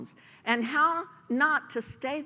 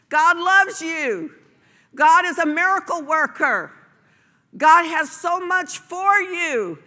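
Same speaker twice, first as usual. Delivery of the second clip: loud, high, fervent exhortation; rally the congregation, full voice; shouted passionate preaching; full-force preaching; 8 semitones higher, 10 dB louder than usual. Acted.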